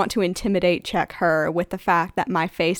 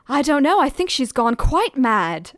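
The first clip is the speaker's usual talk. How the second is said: half-shouted, raised pitch; 6 semitones higher, 5 dB louder than usual. Acted. Dina bluffing to passers-by as she leaves, half-shouted. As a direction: call it out, a mild acted shout.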